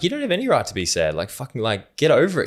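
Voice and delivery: high, pushy and blunt; blunt tough love. Retold or imitated. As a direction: jolt a moping friend awake. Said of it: "I'm like".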